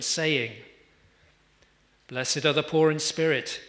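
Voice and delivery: measured, solemn Bible reading; scripture reading. Acted. Preacher reading the Beatitudes to the congregation, measured.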